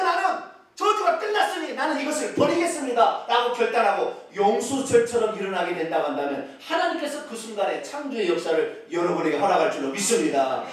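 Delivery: ordinary talk, nothing marked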